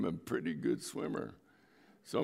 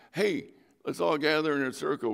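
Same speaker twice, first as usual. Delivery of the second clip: louder, higher rallying call; calling people together; 7 semitones higher, 5 dB louder than usual. Retold or imitated. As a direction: gather the group round you. Pastor calling the group together.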